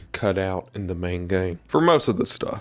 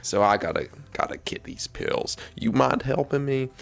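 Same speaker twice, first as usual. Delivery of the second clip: Lewis voice; 2 semitones higher than usual. Retold or imitated. Vlogger imitates Lewis asking Ada for help, lightly voiced and sheepish. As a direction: play it as a mild imitation of a sheepish scientist. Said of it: "Lewis is like".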